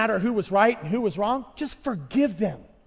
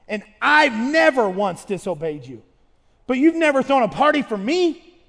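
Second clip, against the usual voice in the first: put-on louder complaining older son; resentful son; 4 dB louder than usual. Son to his father, complaining louder and louder. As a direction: air a bitter grievance. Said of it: "The son said".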